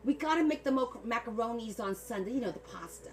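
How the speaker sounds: imitating a chatty Italian New Jersey sister-in-law; Italian New Jersey accent. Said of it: "I'm gonna talk like she talked".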